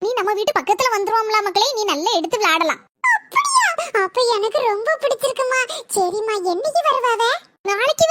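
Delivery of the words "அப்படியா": high, bright surprised question; child thrilled at the news. Acted. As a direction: ask in delighted surprise.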